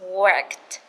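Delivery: worked, ending t sounded; worked with clear final t. Shown as a demonstration. Teacher demonstrating "worked" ending clearly. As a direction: say "worked" with a crisp t at the end. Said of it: "khi thêm E D các bạn lưu ý cho cô nhá".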